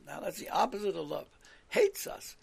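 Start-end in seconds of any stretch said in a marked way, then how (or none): 1.7-2.3 whispered echo. Acted. Repeats the complaint for emphasis.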